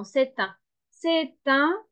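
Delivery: "C'est un" linked with a sounded t; liaison. Shown as a demonstration. Teacher showing learners the link in "C'est un", clear liaison. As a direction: join "C'est un" as "sè-tun". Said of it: "on fait la liaison".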